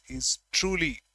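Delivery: "truly" given emphasis, falling at the end; stress on TRULY. Shown as a demonstration. Teacher showing why it is praise, "truly" emphasised. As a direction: put the weight on "truly". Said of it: "emphasis on the word".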